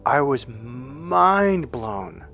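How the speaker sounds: MIND drawn out long, rising then falling; amazed emphasis. Real, not acted. Coach telling listeners what he noticed, amazed emphasis.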